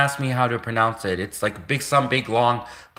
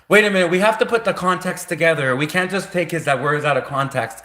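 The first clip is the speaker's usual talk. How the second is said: higher, fast mock voice of officials; hammed-up officials; 5 semitones higher than usual. Officials scrambling to put the whole speech together, hammed-up and fast. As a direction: play a flustered official demanding context.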